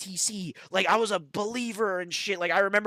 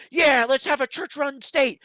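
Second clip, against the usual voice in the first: mocking cheer; 8 semitones higher, 8 dB louder than usual.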